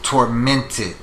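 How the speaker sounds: "Tormented" in three distinct syllables, tor-MEN-ted; slow careful pronunciation. Shown as a demonstration. Teacher helping a stumbling reader with "Tormented", sounding it out slowly. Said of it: "So you gotta read it slow".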